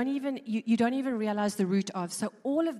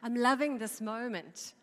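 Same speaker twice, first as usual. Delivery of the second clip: retold shouting out; 3 semitones higher than usual. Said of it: "she shouts it out again".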